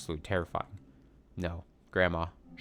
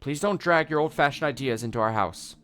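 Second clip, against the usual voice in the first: raised, higher exasperated voice; irritated; 7 semitones higher, 4 dB louder than usual. Acted. Mom objecting to grandma's old-fashioned ideas, irritated. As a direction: scold her with irritation. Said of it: "with an irritated look on".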